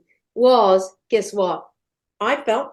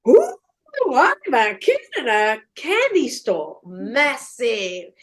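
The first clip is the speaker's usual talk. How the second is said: slow, savoured wonder; kid in candy store; slower than usual. Retold or imitated. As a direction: stretch the words out in awe. Acting out delight at discovering painting.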